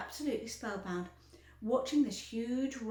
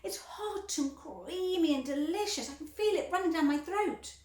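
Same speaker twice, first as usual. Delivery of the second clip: Violet; 7 semitones higher, 4 dB louder than usual. A narrator's reading. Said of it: "shouted Violet".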